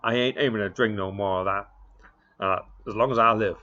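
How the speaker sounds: angry Texas cowboy yelling from the crate; Texas cowboy shout. Acted. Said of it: "in his strong Texas accent".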